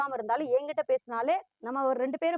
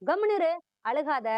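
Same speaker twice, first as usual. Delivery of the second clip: a touch of higher scolding; scolding a child; 6 semitones higher than usual. Acted. Parent mildly scolding a child to stop crying. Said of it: "குழந்தைங்களை நம்ம திட்டுறோம்".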